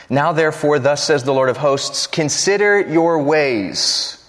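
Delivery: a weighty, slowed consider your ways; emphatic scripture reading. Acted. Pastor reading the prophet's warning to the church, weighty. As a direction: read the warning of the prophet with gravity.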